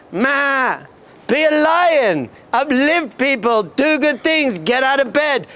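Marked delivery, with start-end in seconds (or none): 0.1-0.8 drawn-out put-on bleat; sheep bleat. Teacher shows being a sheep, mocking bleat. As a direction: bleat to mock the behaviour. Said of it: "That's being a sheep".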